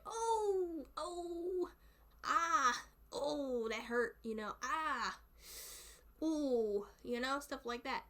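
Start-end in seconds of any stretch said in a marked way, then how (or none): 0.0-4.2 high drawn-out cries of pain; mock pained howling. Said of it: "if you get hurt and you're like". 4.6-6.8 drawn-out pretend cries of hurt; demonstrating a little howl of pain; mock pained groan. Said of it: "if you get hurt and you're like".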